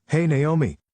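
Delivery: high, urgent called-out name; shouting a name. Acted. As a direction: yell it across the lobby. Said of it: "someone came rushing toward me shouting".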